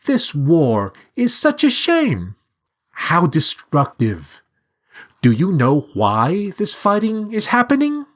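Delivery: high sorrowful talking bird. A narrator's reading. Bird character voice.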